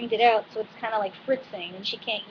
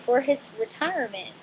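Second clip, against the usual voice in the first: country accent; 3 semitones higher than usual. Real, not acted. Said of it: "I said that kind of weird and country".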